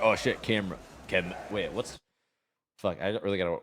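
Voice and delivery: bad French accent attempt. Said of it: "I can't do French".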